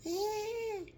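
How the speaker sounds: single high newborn squeal; baby cry imitation. Retelling the baby reviving with a high squeal. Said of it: "baby said".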